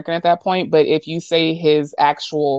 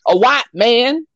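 put-on country accent; 4 semitones higher than usual. Mocking the Facebook page in a light country accent. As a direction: slip into a mild Southern country accent, unhurried. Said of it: "I morphed into a country accent".

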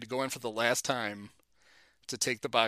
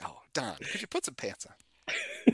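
high, slow, mock-pleading whine; exasperated high whine asking the coach to cover up; pleading with Don; 5 semitones higher, 6 dB quieter, slower than usual. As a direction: beg him high and drawn out like a fed-up reporter. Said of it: "I was like".

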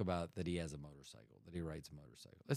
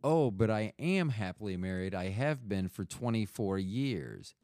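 retold polite reply; 4 dB louder than usual. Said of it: "So I said to them".

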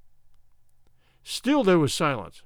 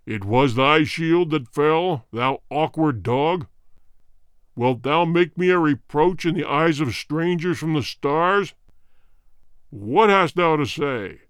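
cruel king voice; 2 semitones lower than usual. Acted. Cruel king rebukes soldier.

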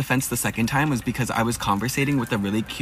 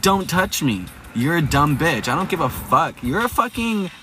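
indignant retort; 5 semitones higher than usual. Retold or imitated. Acted quarrel with security guard.

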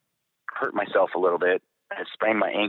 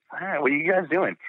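lightly acted, higher-pitched question; curious greeting; 9 semitones higher than usual. Airman walking in on dudes watching news, curious greeting. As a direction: act out a casual, higher-voiced query.

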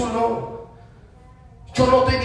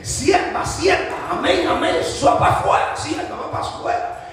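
lightly acted possessed boy, higher pitched; possessed young man; 5 semitones higher than usual. Demon-afflicted nephew ordering the sierva out, lightly acted higher voice. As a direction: put on a hint of a possessed lad. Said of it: "el muchacho dice".

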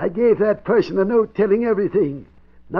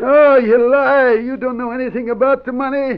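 cling to the lie in panic; old man panicking that his hidden money is found; desperate denial; 4 semitones higher, 3 dB louder than usual. Acted.

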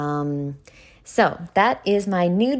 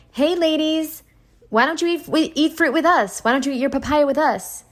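high, sing-song mock call from the naked men; imitating the men calling the girls over, much higher; mock come-on; 10 semitones higher than usual. Naked men calling the girls over, high mock call. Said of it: "They were like".

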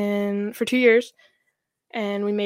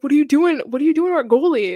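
mock angry teammates; 5 semitones higher, 8 dB louder, faster than usual. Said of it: "a bunch of dudes just coming over".

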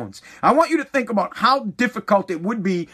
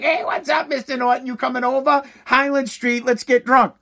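tipsy mom; 5 semitones higher than usual. Retold or imitated. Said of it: "she'd be like".

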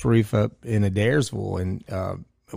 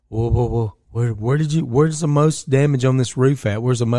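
mock scared adjuster; 2 semitones higher, 3 dB louder than usual. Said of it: "he's up there shaking".

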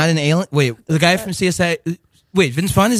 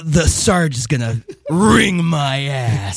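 Gomer Pyle; 3 semitones lower, slower than usual. Pretend. Playing Gomer Pyle in scene.

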